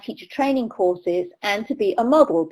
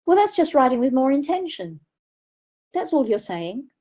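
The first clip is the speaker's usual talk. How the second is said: eye-rolling; 4 semitones higher, 3 dB quieter than usual. Retold or imitated. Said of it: "he rolled his eyes a little bit".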